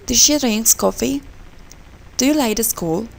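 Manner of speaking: "Did she drink coffee" and "Do you like the school" as rising yes/no questions; two-three question tune on "coffee" and "school"; rising question intonation. Shown as a demonstration. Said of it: "the rise and intonation pattern".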